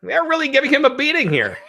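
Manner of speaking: very high, mild mock commentator; hammed-up gee-whiz commentator; wholesome 1950s kid. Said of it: "they're just like".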